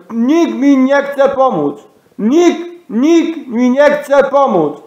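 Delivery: high, slow, drawn-out cry for help. Real, not acted. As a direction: call out desperately, stretching the words. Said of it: "to ja mu krzyczę i mówię". (przeciągłe wołanie o pomoc)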